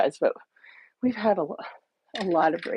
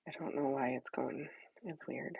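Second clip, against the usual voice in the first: whispering; 6 semitones lower, 15 dB quieter than usual. Real, not acted. Muttering about slow device.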